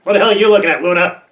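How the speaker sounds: loud, irate orders; angry shouting. Acted. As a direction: shout orders with open irritation. Barking orders at companions.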